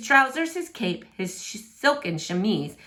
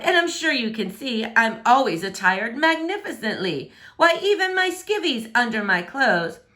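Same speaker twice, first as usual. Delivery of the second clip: lightly voiced haughty prince, a bit higher; pompous prince; 3 semitones higher than usual. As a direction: puff up like a vain royal. Prince brags about clothes.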